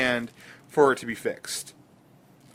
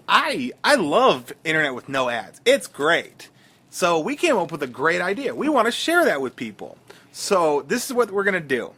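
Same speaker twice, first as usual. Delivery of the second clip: Asian nerd voice. Retold or imitated. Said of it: "I'm talking like the Asian nerd".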